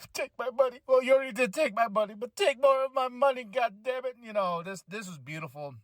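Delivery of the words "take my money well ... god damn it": higher, faster, laughing gush; eager fan joking about spending more; excited fan gush. Real, not acted. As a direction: gush like a fan throwing cash. Fan gushing over match.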